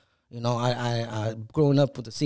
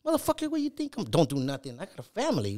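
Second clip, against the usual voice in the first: retold outrage; 4 semitones higher than usual. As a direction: pitch jumps up in angry disbelief. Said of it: "And I'm like".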